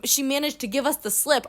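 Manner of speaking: lightly hammed-up movie doctor; mocking the doctor's line to the family; mock dramatic doctor. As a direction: say it like a cheesy TV detective. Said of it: "you wouldn't say".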